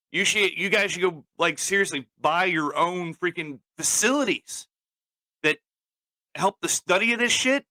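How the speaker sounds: real anger building as he vents; getting angry. Real, not acted. Venting at the league, growing angry and high-pitched. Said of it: "then I start getting angry".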